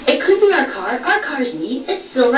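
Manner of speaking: high, whiny protest; husband protesting while being teased, high and whiny; whiny insisting. Retold or imitated. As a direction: plead that it could be his car. Randy insisting it's his car.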